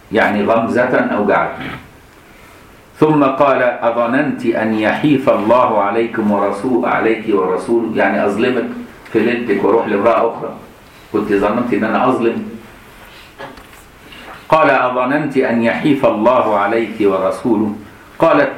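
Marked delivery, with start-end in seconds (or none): 3.6-7.9 slow solemn classical reading; slow recitation. Acted. 14.7-17.8 slow solemn classical reading; slow recitation. Acted.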